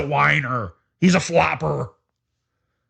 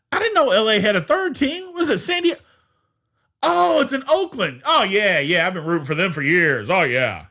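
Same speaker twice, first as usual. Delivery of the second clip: mock bandwagon fan. Mocking a fan who claims years of support, lightly hammed up. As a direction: play a newcomer faking lifelong loyalty.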